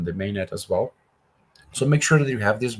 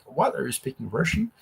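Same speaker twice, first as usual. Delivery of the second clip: confused French listener; 3 semitones higher, 4 dB quieter than usual. Retold or imitated. A French non-technical viewer baffled by jargon, mock bewildered. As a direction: act lost and a little bewildered by tech talk. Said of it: "you might be like".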